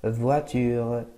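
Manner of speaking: فواتور said slowly as French votre. Shown as a demonstration. Teacher modelling فواتور slowly for students. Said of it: "نوتخ فواتور".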